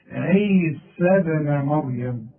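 عيسى ابن مريم said slowly with the final ya dropped; connected recitation. Shown as a demonstration. Teacher showing the connected reading of the name. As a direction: drop the long ya of عيسى before ابن. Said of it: "عند الوصل".

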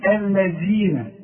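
slow الذين with the tongue between the teeth for ذ. Shown as a demonstration. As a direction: stretch الذين, clear ذ not z. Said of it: "إذا ما تقولش". (الذال بإخراج طرف اللسان)

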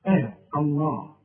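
mock آه الله with a heavy opening; the wrong heavy آه الله; wrong heavy hamza. Shown as a demonstration. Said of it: "ما تقولش بقى آه الله". (آه الله بهمزة مفخمة غلط)

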